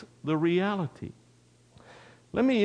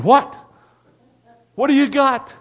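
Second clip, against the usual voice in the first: high, loud, alarmed questioning; acted bewildered yell; startled shout; 10 semitones higher, 9 dB louder than usual. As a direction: shout back as a dad jolted awake. Startled dad woken, shouting back.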